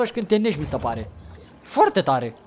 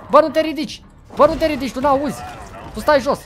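shouting at prey; 5 semitones higher than usual. Real, not acted. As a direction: order him down with raised voice. Scolding a victim who stands up. (strigă răstit, mai sus)

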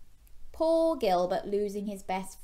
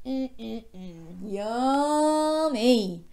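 mock relish; 2 semitones higher, 5 dB louder, much slower than usual. Storyteller to children about junk food, hammed-up yummy relish. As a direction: savour it with playful, rising delight.

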